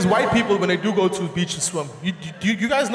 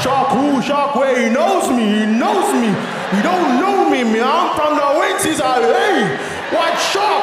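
tough bragging; 4 semitones higher, 5 dB louder than usual. Acted. Bragging tough local, loud.

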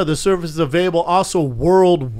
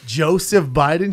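slow, drawn-out imitation of a redneck; lightly hammed-up Southern taunt; mock redneck; slower than usual. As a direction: stretch the name like a drunk Southerner. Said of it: "Total redneck shit".

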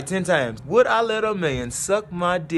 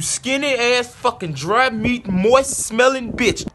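slow and higher, dripping disgust; slow contemptuous insult; 4 semitones higher, slower than usual. Acted. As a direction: drag out each insult. Insulting the sender.

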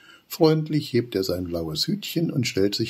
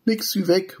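much higher, louder cry to flee; alarmed shout; 13 semitones higher, 5 dB louder than usual. Acted. Flinki urging the friends to run from the fox, shouting. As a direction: yell to run. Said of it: "ruft Flinki".

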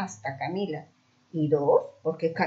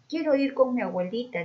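fake whimper; 6 semitones higher than usual. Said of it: "se largó a llorar".

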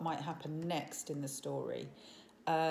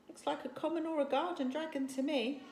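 doubtful chief; 8 semitones higher than usual. A narrator's reading.

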